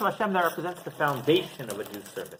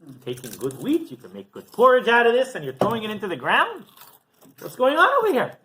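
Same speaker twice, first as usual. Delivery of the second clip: retold yell; 4 semitones higher, 4 dB louder than usual. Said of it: "starts yelling at him".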